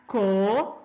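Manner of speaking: slow co, RU, ja with the middle one strongest; stress on middle syllable. Shown as a demonstration. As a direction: break coruja into beats and push the RU. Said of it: "Você fala mais alto o ru".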